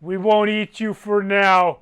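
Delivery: slow, mildly pompous giant's demand; lightly voiced giant. Giant sending the party to the council, slow mock-solemn demand. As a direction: lay down terms like a dim giant, slowly.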